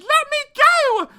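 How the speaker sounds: slow, high-pitched shriek; loud Cinderella yell; shouted. A narrator's reading. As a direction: scream to be released, drawn out. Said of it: "As Cindy shouted".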